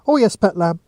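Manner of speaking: lightly voiced Geordie shop woman, half-joking; a hint of Geordie banter. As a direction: tease them gently in a Geordie lilt. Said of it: "half-joked the woman behind the counter".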